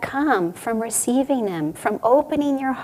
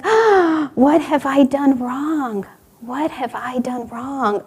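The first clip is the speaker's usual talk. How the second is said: gasped, drawn-out mock anguish; stretched-out lament, acted dismay; grieving; 3 semitones higher, slower than usual. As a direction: wail it slowly in hammed-up grief. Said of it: "He's just in such grief".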